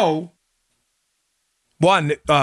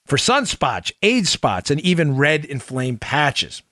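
infomercial. Acted. Sponsor read.

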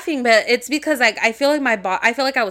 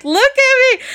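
high, louder imitated order; insistent demand; 13 semitones higher, 5 dB louder than usual. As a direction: act out a scared partner insisting. Partner's demand escalating.

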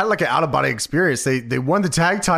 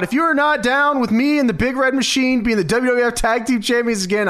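mock wrestler promo; 8 semitones higher than usual. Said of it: "X-Pac screams out".

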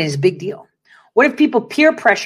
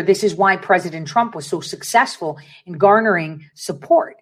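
ordinary delivery

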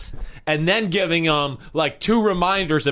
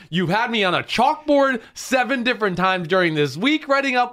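exasperated rant; 4 semitones higher than usual. Retold or imitated. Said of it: "And I wanna be like".

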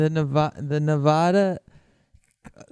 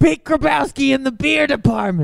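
mock store announcement; 10 semitones higher, 7 dB louder than usual.

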